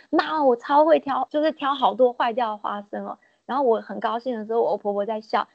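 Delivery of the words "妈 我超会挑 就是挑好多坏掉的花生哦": proud. Retold or imitated. Daughter-in-law proudly telling her mother-in-law, mildly boastful. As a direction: lightly show off to mom. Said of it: "我非常得意的跟我婆婆说".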